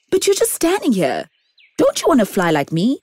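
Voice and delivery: high, quick bird voice; chirpy bird pressing the tree. Acted.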